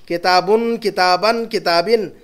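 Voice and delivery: held un, an, in closing "किताबुन, किताबन, किताबिन"; stressed endings. Shown as a demonstration. Teacher demonstrating indefinite endings, drawing out each in "किताबुन, किताबन, किताबिन". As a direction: lean on each changing last syllable of "किताबुन, किताबन, किताबिन". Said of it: "उन अन इन को".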